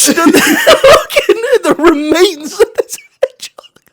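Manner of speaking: barely voiced through helpless giggles; laughing whisper. Real, not acted. Describing the taxi to a friend, laughing whisper.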